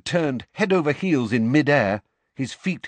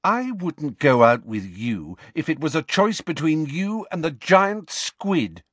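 scornful Lily; 7 semitones higher than usual. Acted. Lily scornfully rejects James.

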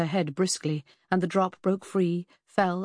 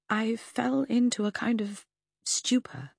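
hushed recollection; 5 semitones higher than usual. Acted. Lucy recounting drugged stupor.

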